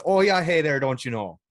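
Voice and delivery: loud, high Minnesota hick voice; Minnesota hick accent. Retold or imitated. Imitating hick coworkers, loud Minnesota accent. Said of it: "We had some hicks".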